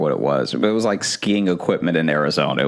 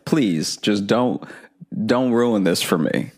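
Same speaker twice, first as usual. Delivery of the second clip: pleading; 4 semitones higher than usual. Retold or imitated. Begging the bank on phone.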